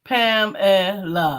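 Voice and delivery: "Pamela" drawn out slowly; her way. Shown as a demonstration. Co-host says her own name her way, slowly. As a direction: say "Pamela" as you always do. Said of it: "but I always say Pamela".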